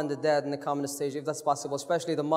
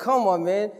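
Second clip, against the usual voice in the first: English personified; 4 semitones higher, 5 dB louder, much faster than usual. Retold or imitated. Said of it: "English is like".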